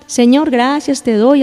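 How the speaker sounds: slow, drowsy, half-hearted prayer; mock yawning prayer. Lazy believer praying while yawning, mock drowsy slow. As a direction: mumble it like you're falling asleep. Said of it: "hasta va bostezando".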